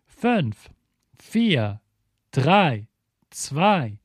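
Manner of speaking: high, excited rocket countdown; excited launch call. Acted. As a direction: count them down to liftoff.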